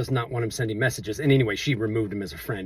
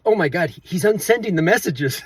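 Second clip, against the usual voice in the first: higher-pitched imitation of panicked alarm; mock freak-out; 5 semitones higher, 3 dB louder than usual. Gal sees he's unsending the messages, imitated freaking out. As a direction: retell her freaking out with raised pitch. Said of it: "she starts freaking out".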